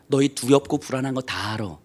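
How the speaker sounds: normal talking voice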